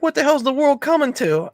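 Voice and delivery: high-pitched mock outrage with laughter; incredulous retold quote, way up high; imitated indignation. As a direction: laughingly act out an appalled question. Acting out De Niro, amused.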